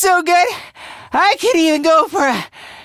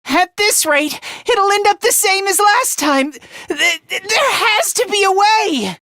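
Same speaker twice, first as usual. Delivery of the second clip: desperate; 5 semitones higher than usual. Acted. Desperate at the odds.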